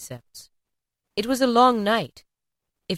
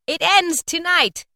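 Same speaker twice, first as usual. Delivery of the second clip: high, slow grave pronouncement; ghost's reply; 10 semitones higher, 5 dB louder, slower than usual. A narrator's reading. Ghost telling Scrooge its fate, slow and grave. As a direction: let the end land slowly. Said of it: "replied the ghost".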